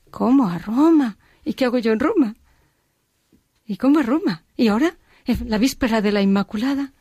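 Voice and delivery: stunned and flustered at the news; retold disbelief. Retold stunned reaction to Rome call.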